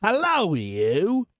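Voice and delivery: guard's hail. A narrator's reading. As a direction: gruffly hail a suspect stranger. Guard hails the stranger gruffly.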